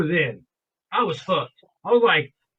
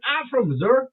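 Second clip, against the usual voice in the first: put-on Southern accent with Missouri said as "Missoura"; deep Southern accent; 5 semitones higher than usual. Stranger answering where he is from, imitated deep Southern accent. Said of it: "deep accent".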